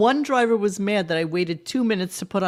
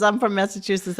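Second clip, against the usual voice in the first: bad Massachusetts accent; 3 semitones higher than usual. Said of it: "the worst accent impersonation".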